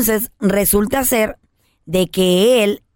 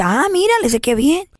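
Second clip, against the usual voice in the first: hermana emocionada; 6 semitones higher than usual. Retold or imitated.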